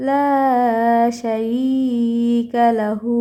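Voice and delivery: শারীকা drawn out slowly; slow recitation. Shown as a demonstration. Teacher reciting for students, slow chant. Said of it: "এক আলিফ টান হবে".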